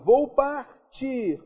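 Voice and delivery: partir stretched very slowly, hitting tir; slow classroom stress on tir; drawn-out example. Shown as a demonstration. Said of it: "Oxítona terminada em R".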